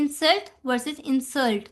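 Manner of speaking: first insult stressed on IN, second on SULT, slow; noun then verb stress. Shown as a demonstration. Teacher contrasting noun and verb stress, slow and deliberate. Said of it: "अब इंसल्ट हमारे पास एक noun है जबकि इंसल्ट हमारे पास verb है".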